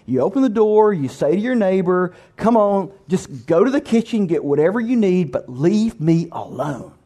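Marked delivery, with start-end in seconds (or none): 2.4-6.9 mildly grumpy giving-in, slowing on the last words; grumbling reluctance. Acted. Woken man letting neighbor into kitchen, mild grumbling. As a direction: give in grudgingly, dragging out the final plea. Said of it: "you're grumbling".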